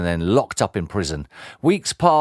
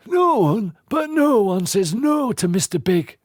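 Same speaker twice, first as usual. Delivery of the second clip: menacing henchman; 12 semitones higher than usual. Acted. Henchman warning the boy, sly and menacing. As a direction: lean in with a veiled threat.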